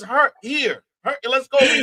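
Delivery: put-on a light Saint Louis hometown accent, slightly high. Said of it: "we put on that accent".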